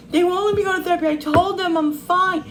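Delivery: high, pleading mock sob; imitating crying daughter. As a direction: play the upset daughter near tears. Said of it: "crying, like".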